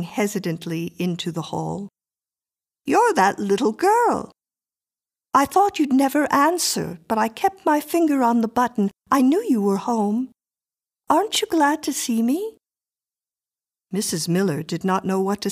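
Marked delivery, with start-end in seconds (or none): 2.8-12.6 put-on high, insistent little girl voice; a strange child demanding entry; eerie little girl. A narrator's reading. Miriam, child at the door.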